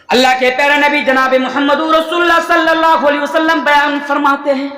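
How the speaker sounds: sustained, chanting-like preacher's recital; sermon proclamation. Real, not acted. Preacher introducing a hadith, solemn proclamation. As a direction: announce the Prophet's words to a crowd.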